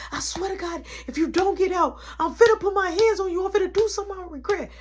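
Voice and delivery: tone 1. Retold or imitated. Tracy threatens again.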